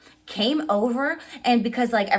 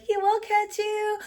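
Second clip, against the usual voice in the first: higher, slow, sing-song crowd voice; mock confident crowd; 13 semitones higher, slower than usual. Fans sure they'll catch the singer, higher sing-song. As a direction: play the crowd sure of itself. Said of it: "we were like".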